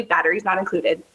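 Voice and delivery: lightly voiced toy ad read; toy commercial. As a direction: rattle it off like an ad. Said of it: "just blurt it out".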